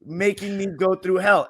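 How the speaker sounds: slow, drawn-out exasperation; exasperated venting. Real, not acted. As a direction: stretch out the long-suffering complaint. Fan venting about years of coach.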